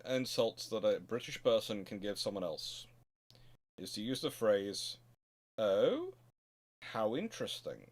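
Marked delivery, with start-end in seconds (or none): none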